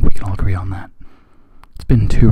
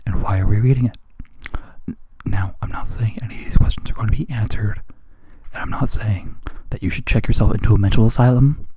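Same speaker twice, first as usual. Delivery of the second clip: whisper; 3 dB quieter than usual. Real, not acted. Confiding aside to reader.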